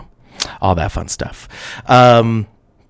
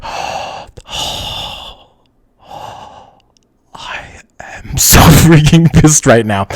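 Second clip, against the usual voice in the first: breathy villain start, then a slow comic complaint; whispered first word, drawn out into mock annoyance; Darth Vader; slower than usual. Streamer imagining an irritated movie villain, hammed-up breathy impression. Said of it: "he'd be like".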